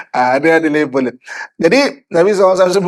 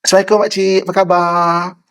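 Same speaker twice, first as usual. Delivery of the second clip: friendly greeting with an audible smile; pleasant, smiling conversational hello. Shown as a demonstration. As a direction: greet an auntie sweetly at a normal level. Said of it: "boleh disebut sebagai smiling voice".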